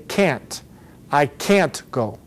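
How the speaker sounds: "can't" with a full, drawn-out A; stressed "can't", vowel clearly heard; emphasized A. Shown as a demonstration. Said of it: "the A emphasized".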